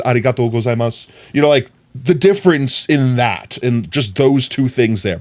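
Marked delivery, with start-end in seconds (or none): 0.0-1.1 quick "Arigato gozaimasu" with tapped r; attempted native Japanese thanks; Japanese accent. Shown as a demonstration. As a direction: try to sound Japanese. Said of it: "both terrible still".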